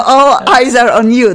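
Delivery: excited. Real, not acted. Host teasing the guest.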